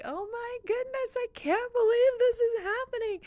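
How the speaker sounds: high, delighted squeal of disbelief; joyful shout. Retold or imitated. Imagining a listener whose dreams came true, squealing for joy. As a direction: burst out in happy disbelief. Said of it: "you're just gonna scream and, like, shout for joy".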